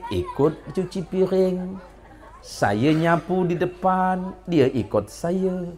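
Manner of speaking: slow, drawn-out grumbling of a fed-up wife; lightly voiced wife whining about her lazy husband; a hint of a weary wife listing her husband's habits; complaining wife.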